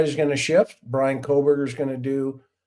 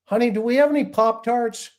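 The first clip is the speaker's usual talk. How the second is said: tired cop at home; 9 semitones higher, 5 dB louder than usual. Retold or imitated. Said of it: "they go home at night and they go".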